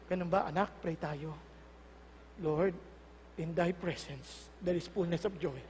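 low, hushed, slow prayer; calm praying mother. Acted. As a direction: answer softly, then pray serenely. Calm ideal reaction, mother prays. (mahinahong nanay na nananalangin)

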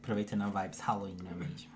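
spooky Halloween whisper. Acted. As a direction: whisper it like a ghost story.

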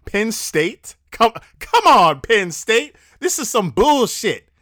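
high, loud, indignant outburst; worked-up sports fan griping loudly; exasperated fan rant. Real, not acted. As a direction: complain in disbelief, voice jumping up. Fan griping about his team's loss.

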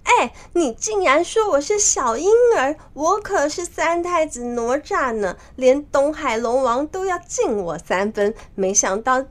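bristle, then wail the last words high; very angry. Acted. Nezha answers being called a baby, high-pitched and furious. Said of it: "非常的生气".

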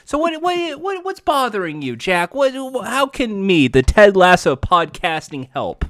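lightly voiced folksy counselor, soft and sliding down; hint of a gentle Southern coach offering help; soft, mildly put-on coach voice; Ted Lasso. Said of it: "myself as the Ted Lasso of podcasts".

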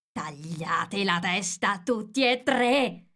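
slow, drawn-out order building in force; commanding shout. A narrator's reading. Queen condemns the three gardeners, slow commanding shout. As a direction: pronounce the sentence with mounting force.

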